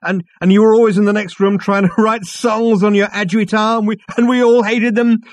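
loud, high, tipsy bonhomie; drunk loud greeting. A narrator's reading. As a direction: call out drunkenly across the room. Drunk Ford rambling loudly.

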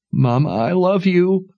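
high, tearful agreement; high tearful yielding; tearful daughter. Acted. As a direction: give in through tears.

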